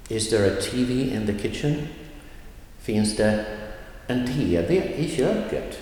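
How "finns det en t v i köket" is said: "T V" lifted, "i" skipped by; teacher leaning on "T V", rushing the "i"; stress on T V. Shown as a demonstration. Teacher showing which noun to stress: "T V" lifted. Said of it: "T V, emphasized".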